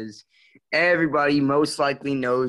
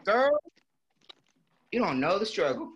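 put-on much higher, sing-song girly voice; camp feminine voice; 9 semitones higher than usual. Friend demands an encore, so he camps it up in a much higher girly voice. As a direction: play up a sassy valley girl, all drama. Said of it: "I could talk in a feminine voice".

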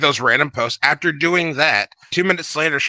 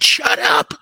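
high shrill snap; shrill overlapping reality fight; 12 semitones higher, 3 dB louder than usual. Retold or imitated. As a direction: shriek it like a catfight. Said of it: "I said".

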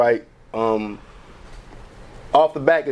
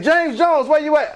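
announcer calling; 11 semitones higher, slower than usual. Retold or imitated. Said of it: "they're like".

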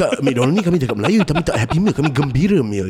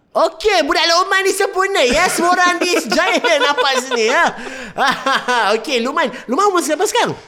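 mall MC voice; 13 semitones higher than usual. Retold or imitated. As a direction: grill the kid like a cheesy mall MC. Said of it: "the M Cs at the Giant".

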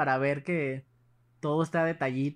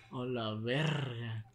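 asombro lento; 3 semitones lower, much slower than usual. Retold or imitated. Reacción de miedo al enterarse.

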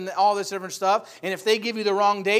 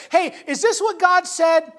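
sly tempter; 9 semitones higher, 5 dB louder than usual. Retold or imitated. Preacher voices the devil tempting Eve.

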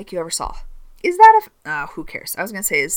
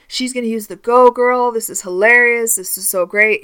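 imitated excited chatter, a bit raised; mock hype; 4 semitones higher, 4 dB louder than usual. Campers buzzing about their counselor's stunt, mock-excited. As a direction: play the hyped-up camp crowd. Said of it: "a lot of energy and hype".

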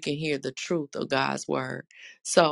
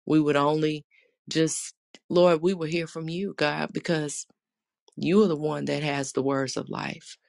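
earnest spoken prayer. Acted. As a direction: pray aloud to the congregation. Leads an opening prayer.

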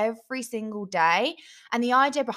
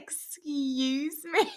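slow, drawn-out indignant retort; mock offended; 5 semitones higher, much slower than usual. Podcaster retells snapping back at her laughing boyfriend, mock offended. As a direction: act affronted, stretching the words out.

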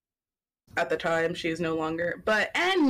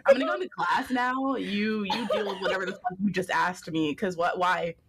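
baffled and offended, pitched way up; 3 semitones higher, 4 dB louder than usual. Retold or imitated. Acting out her own baffled reply.

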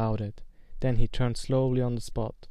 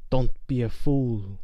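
snarl; 4 dB louder than usual. Acted. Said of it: "snarled the face".

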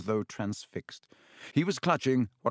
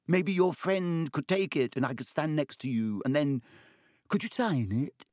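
put-on high, awed young voice; excited first-year gushing to his hero; excited boy; 4 semitones higher than usual. A narrator's reading. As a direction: gush with wonder. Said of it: "shuddering breath of excitement".

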